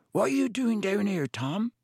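put-on startled, defensive young giant; big boy voice. A narrator's reading. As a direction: caught out, high and uneasy. Startled boy Hagrid caught.

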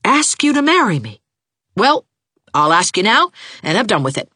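very high, loud angry proposal; exasperated outburst. A narrator's reading. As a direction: rant heatedly, then propose as a challenge. Angry proposal mid-quarrel.

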